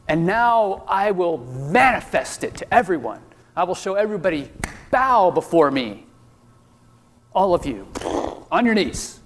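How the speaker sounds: a hint of a tyrant commanding worship; menacing evil villain. Imagined tyrant demanding worship.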